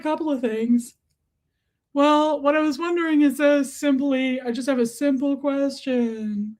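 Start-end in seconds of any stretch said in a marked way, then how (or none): 1.9-6.6 talking to a pet. Real, not acted. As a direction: put a simple question to your little dog. Questioning her pet in pet-talk.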